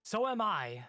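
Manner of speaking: high, loud put-upon clerk; high complaining clerk voice; whiny clerk. Acted. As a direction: whine like a stuck little paper-pusher. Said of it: "and he's like".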